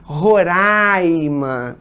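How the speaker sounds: "Roraima" drawn out with open oral "raaai"; locals' pronunciation. Shown as a demonstration. Teacher quotes the state's residents, drawn-out local pronunciation. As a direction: stretch the open "ai" in "Roraima", no nasal. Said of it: "Os moradores do estado".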